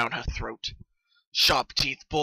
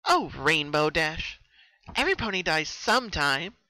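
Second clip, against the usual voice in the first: mock-tender menace; 3 semitones higher than usual. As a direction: soothe her like a sick lullaby. Killer taunting her captive.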